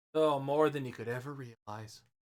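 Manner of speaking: very quiet, barely audible aside. Voicing a halfling reacting to what the others said, very quietly. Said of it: "He says that very quietly".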